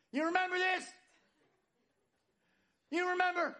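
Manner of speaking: high, excited mock voice for an old memory; nostalgic reminiscing. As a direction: gush over the old card like a giddy teen. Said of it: "we're like".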